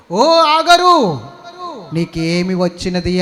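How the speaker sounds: loud, slow call from above; God's voice calling. Acted. God calls to weeping Hagar in the desert, booming and slow. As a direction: stretch out the name like a divine call.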